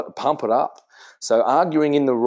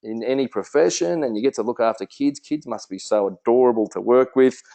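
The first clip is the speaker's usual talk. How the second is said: enthusiastic praise. Shown as a demonstration. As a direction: sell it with big delight. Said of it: "you'd say".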